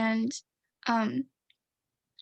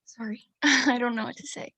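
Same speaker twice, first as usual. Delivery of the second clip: embarrassed whispered apology with a laugh; nervous whisper. Real, not acted. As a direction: whisper it, flustered and giggling. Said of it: "sorry, I'm nervous".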